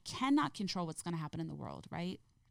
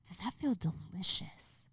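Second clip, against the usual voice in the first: put-on higher, lilting talk to a toddler; inquisitive parent; 5 semitones higher than usual. Mother asking her son about his food, inquisitive child-directed voice. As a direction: ask a small child with drawn-in curiosity. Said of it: "showing him how to start being inquisitive".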